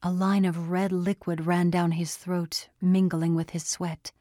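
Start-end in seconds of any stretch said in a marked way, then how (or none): none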